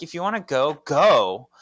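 defiant retort. Acted. Paige crying, acted quarrel.

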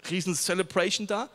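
lightly voiced irritated neighbours complaining; annoyed townspeople. Preacher voicing annoyed neighbours of the church, mild grumble. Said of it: "Dass Leute gesagt haben".

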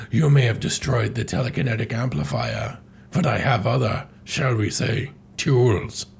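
lightly voiced theatrical villain; Andros. Villain boasts to his captive toad, lightly hammed menace.

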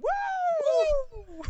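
high laughing woo, wrestler style; Ric Flair woo. Retold or imitated. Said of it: "turn around".

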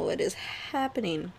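ordinary talk, nothing marked

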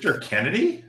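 high, ringing announcer call; hammed-up arena introduction; wrestler's self-introduction. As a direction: imitate a wrestler hollering his name. Mimics wrestler shouting his own name.

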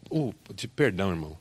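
quiet, offhand sorry; a hushed, casual sorry to a church brother; soft apology. Acted. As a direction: mumble a polite apology. Pastor apologizes after stepping on foot.

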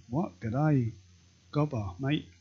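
hammed-up Aussie accent for a quote; mock Australian accent. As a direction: imitate an Australian bloke, loosely. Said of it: "obviously, Australian".

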